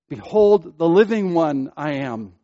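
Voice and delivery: "living one" stressed, falling away on "I am". Shown as a demonstration. Preacher asking where the emphasis falls, stress on "living one". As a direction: open loud on "Behold", lean on "living one". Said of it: "Where is the emphasis in that phrase?".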